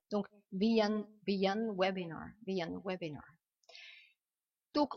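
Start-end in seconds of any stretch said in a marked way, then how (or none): 1.3-3.2 "the un webinar" linked with a y glide; linked words. Shown as a demonstration. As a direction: run "the" into "un" as thee-yun. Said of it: "vous faites la liaison très facilement". (« the un webinar » avec liaison en y)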